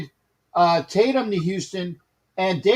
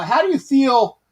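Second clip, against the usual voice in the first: put-on Bronx accent; 2 semitones higher than usual. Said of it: "'cause I'm trying to do the Bronx accent".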